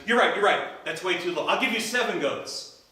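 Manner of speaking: high, loud, eager; eager bargaining. Acted. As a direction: raise the offer keenly. Johnny raises his offer.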